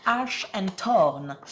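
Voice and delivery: a French speaker proudly mangling an English title; English accent. Shown as a demonstration. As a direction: announce "Oak, Ash and Thorn" slowly in a hammed-up English accent. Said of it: "mon accent pourri anglais tout au long de la vidéo".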